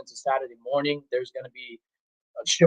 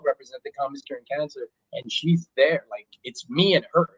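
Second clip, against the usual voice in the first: underwater audio. Real, not acted. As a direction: voice over a bad internet line. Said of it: "the audio sounds a bit underwater".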